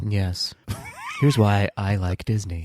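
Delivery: lightly imitating their own early cool delivery; mock too-cool. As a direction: play along in a low, cool podcast voice. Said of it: "talking like this and trying to be all cool".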